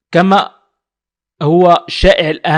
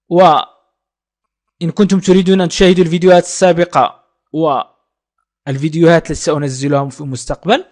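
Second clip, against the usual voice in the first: youtuber outro; 3 semitones higher, faster than usual. Acted. Teacher asking viewers to like and subscribe, brisk announcer read. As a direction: rattle off the subscribe request.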